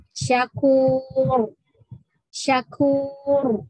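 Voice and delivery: loud "Syakur", ro thick at the stop; heavy ro. Shown as a demonstration. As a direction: recite "Syakur" firmly, ro full.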